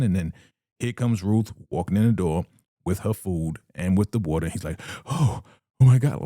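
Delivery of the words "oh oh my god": mock surprise. Leader surprised by Ruth.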